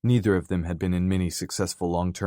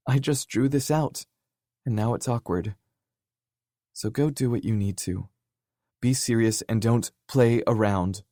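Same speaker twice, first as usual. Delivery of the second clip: emotional pleading; 3 semitones higher than usual. Acted. Kenzie's emotional confession.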